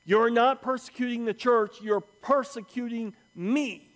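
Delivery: emphatic, weighted accusation; deliberate, pointed rebuke; Jesus confronting Paul. Acted. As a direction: press hard on the final word. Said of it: "And then he says".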